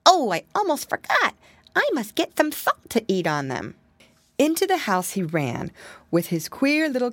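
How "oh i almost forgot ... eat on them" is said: piglet remembering. Acted. Piggy boy remembers salt.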